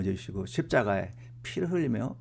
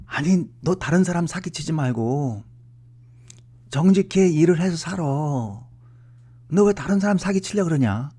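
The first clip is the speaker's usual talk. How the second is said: father's scolding; 6 semitones higher, 4 dB louder than usual. Retold or imitated. Father scolding son about becoming pastor.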